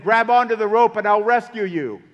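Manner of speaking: mock megaphone call to a man on a roof; hammed-up rescue call from above; over a loudspeaker. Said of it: "And over the loudspeaker".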